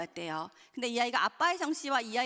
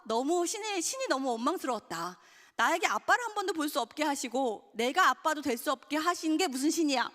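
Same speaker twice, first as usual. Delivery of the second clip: mild reproach toward God, pitched up at times; retold resentment; 3 semitones higher than usual. Stepdad reproaching God for denying him fatherhood, mildly resentful. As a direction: retell a bitter complaint with restrained force. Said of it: "원망을 했는데".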